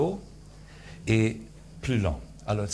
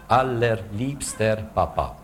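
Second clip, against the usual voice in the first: slow spoken demo; slower than usual. Shown as a demonstration. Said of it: "Deux notes pour marquer les différents voyelles".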